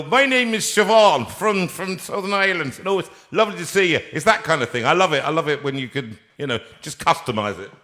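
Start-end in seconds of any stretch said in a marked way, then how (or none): 0.0-4.0 lightly done southern Irish sat nav voice; Siobhan southern Irish accent. Retold or imitated. Host imitating a southern Irish sat nav voice, lightly done. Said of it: "different accents".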